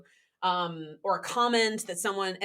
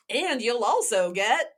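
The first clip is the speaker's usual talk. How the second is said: slow, punchy TV pitchman; infomercial voice; 5 dB louder, slower than usual. Shown as a demonstration. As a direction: sell it like a late-night ad. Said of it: "that's my, um, infomercial voice".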